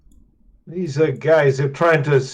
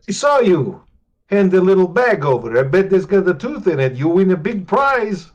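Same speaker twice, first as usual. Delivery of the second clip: louder, pressing a deal; pushy bargaining hero; 4 semitones higher, 5 dB louder than usual. Acted. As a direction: lean in hard and sell it to the goblin. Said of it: "I approach them and I say".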